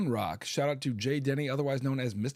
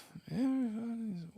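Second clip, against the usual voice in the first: throat clear; 9 semitones higher, 6 dB quieter than usual. Real, not acted. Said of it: "with this throat I've got".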